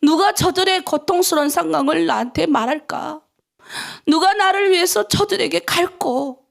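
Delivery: a hint of a grieving God asking who will go; voicing God's call. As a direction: read it as God's own plea. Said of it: "성경에 그렇게 나와 있다니까요".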